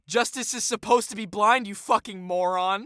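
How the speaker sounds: loud, high exasperated rebuke; real heated insult; angry outburst. Real, not acted. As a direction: raise your voice in outraged disbelief.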